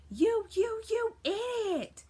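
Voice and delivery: high, loud, drawn-out crazy screech; wild top-of-the-lungs villain scream. Acted. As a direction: yell it like a crazed cartoon villainess. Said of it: "yelling and screaming at the top of her lungs".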